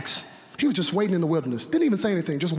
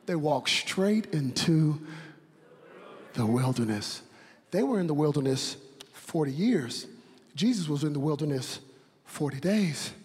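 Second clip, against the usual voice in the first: much lower and softer, drawn down; preacher falls quiet after the peak; hushed preaching; 4 semitones lower, 5 dB quieter than usual. Acted. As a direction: drop it to a hush. Sudden drop after climax.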